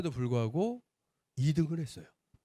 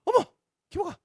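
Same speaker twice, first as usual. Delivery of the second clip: much higher startled cry of recognition; surprised shriek; 6 dB louder than usual. Retold or imitated. Realtor shocked to recognize the son, high-pitched cry. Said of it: "이렇게 얘기를 하시더라고요".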